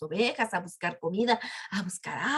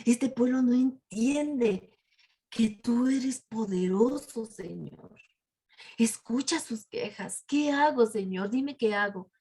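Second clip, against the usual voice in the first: slow, drawn-out appeal to God at first; lightly acted plea of a weary leader; pleading prayer. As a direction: implore the Lord for guidance. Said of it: "es cuando ora y le dice".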